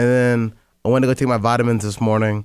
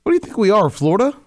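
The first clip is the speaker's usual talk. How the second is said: incredulous; 8 semitones higher, faster than usual. Real, not acted. Incredulous at hurricane suggestion.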